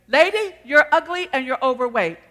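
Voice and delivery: a hint of a heckling bird; rude parrot. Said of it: "He continued to say".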